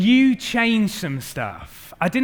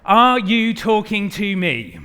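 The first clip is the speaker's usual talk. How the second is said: De Niro line; 4 semitones higher, 8 dB louder, slower than usual. Shown as a demonstration. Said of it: "Your line of text is".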